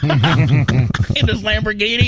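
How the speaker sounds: high, slow, laughing question. Real, not acted. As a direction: laugh through the punchline. Joking about a vain rich client.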